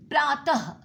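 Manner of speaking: प्रातः ending in a breathy h; final h sound. Shown as a demonstration. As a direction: say प्रातः with a clear h at the end. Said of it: "इसमें ह अवश्य आएगा". (प्रातः के अंत में ह सुनाई दे)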